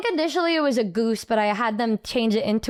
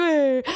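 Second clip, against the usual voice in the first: drawn-out imitated wail; mock-cry in one long whine; retold crying. Retelling a tearful airport goodbye, mock crying wail. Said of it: "I just started crying".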